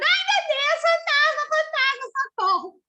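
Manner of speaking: put-on very high, loud, terrified shrieking. Retelling men in a boat mistaking Jesus for a ghost, imitating men screaming in fear. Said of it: "um barco cheio de homem gritando".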